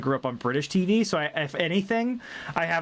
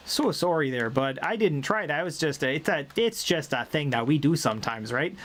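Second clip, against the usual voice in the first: light East Coast "so sorry there, bud"; chatty Maritimer apology; East Coast Canadian; 2 semitones lower than usual. Shown as a demonstration. Explaining East Coast speech, lightly voiced East Coast apology. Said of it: "East Coast more".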